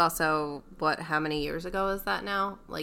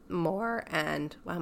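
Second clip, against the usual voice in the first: voice cracking; 6 dB quieter, much slower than usual. Real, not acted. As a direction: voice cracks mid-word. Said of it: "my voice just cracked".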